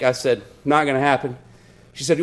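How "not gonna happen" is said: low, quiet deadpan; understated, low-voiced refusal; deadpan reply. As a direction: answer softly and drily, unbothered. Deadpan reply in retold argument.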